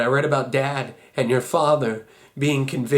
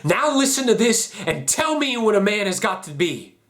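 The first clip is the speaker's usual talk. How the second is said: higher, forceful angry demand; 5 semitones higher than usual. Acted. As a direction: demand that they listen and answer. Confronting someone before reading letter.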